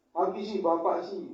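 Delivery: a wife pouting the blame back at her husband; whiny retort. Pretend.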